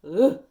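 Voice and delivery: short, loud "ugh"; groan. Real, not acted. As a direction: blurt out a weary groan. Groans before needing coffee.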